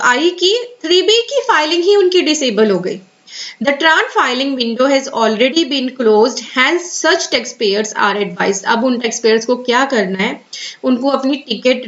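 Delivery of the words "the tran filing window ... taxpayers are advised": very slow, careful reading of an official notice. Acted. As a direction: read the advisory word by word. Continues reading the advisory. (धीमे, सावधानी से सरकारी सूचना पढ़ना)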